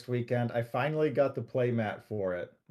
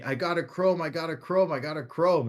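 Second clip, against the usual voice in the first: mildly excited imitation, pitched higher; excited retelling; 4 semitones higher than usual. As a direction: repeat it eagerly, as if imitating a thrilled text. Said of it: "and he's so excited".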